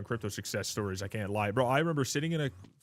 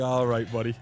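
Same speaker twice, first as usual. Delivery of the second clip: mock dismissive retort; 6 dB louder than usual. Retorting to the chatter.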